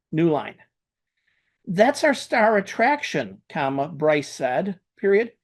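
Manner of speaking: reading a draft aloud to dictation software; dictating. Acted. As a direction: dictate each line and say the punctuation. Dictating a story with punctuation.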